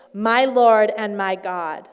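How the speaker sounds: loud, slow exclamation of worship; drawn-out, heartfelt acclamation; awed declaration. Acted. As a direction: proclaim it slowly and fully, in reverent awe. Voicing Thomas worshipping Jesus.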